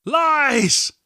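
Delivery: high-pitched, drawn-out cry of denial; outraged shout. Acted. Captive father rejects Edling's taunt, shouting. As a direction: cry it out in desperate protest. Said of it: "Wendell shouted".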